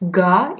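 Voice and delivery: GA as one open syllable, final consonants silent; French pronunciation. Shown as a demonstration. Teacher showing how French gars is said, French pronunciation. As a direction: say GA the French way, ending on the vowel. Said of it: "it has a different pronunciation".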